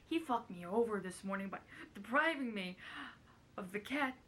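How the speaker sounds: lightly put-on celebrity narration; a hint of impression in the story reading; Carol Channing. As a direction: keep up a shaky comic impression while reading. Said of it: "I think this is really bad so far".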